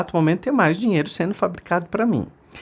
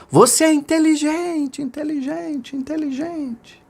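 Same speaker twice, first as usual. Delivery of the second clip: fading echo; 13 semitones higher than usual. Acted. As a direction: let the echo die away. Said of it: "a montanha devolveu".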